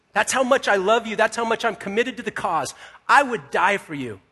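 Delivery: acted-out fervent insistence; strong pledge. Peter committing himself to Jesus, fervent and emphatic. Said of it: "Peter says some strong things".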